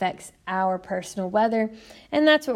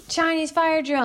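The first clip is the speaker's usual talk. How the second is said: retold call-out; 7 semitones higher than usual. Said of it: "someone would say".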